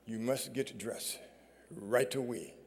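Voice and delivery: a hint of a South African friend's accent, quiet; understated South African accent, hushed. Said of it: "in his South African accent".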